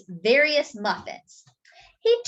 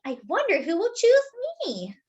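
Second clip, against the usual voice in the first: excited Arnie; 12 semitones higher than usual. A narrator's reading. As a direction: squeal with delight. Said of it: "said Arnie".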